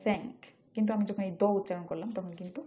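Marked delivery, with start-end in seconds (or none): 0.0-0.4 "thank" with a breath-only th; tongue between the teeth on the th of "thank"; careful isolated "thank"; unvoiced th. Shown as a demonstration. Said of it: "জিহ্বার মাঝামাঝি আমি উপরে পাটি দাঁত".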